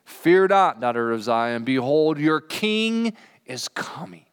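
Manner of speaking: a ringing call that settles into a slow close; proclaiming scripture. Acted. Preacher quotes the prophecy to the congregation, proclaimed. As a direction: announce it like a herald.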